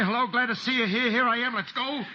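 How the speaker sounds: high sarcastic fake welcome; mock cheerful greeting. Fugitive mocks surrendering to the pilot, sarcastic. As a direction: sneer through a pretend hello. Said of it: "Rush out and say".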